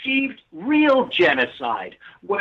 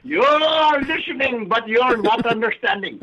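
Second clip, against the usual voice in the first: put-on Indian accent; 4 semitones higher than usual. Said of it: "it's a great accent".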